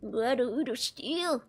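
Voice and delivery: slow raspy ghoul growl. Acted. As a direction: drawl it like a Fallout ghoul. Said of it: "Can do a pretty good Fallout Ghoul voice".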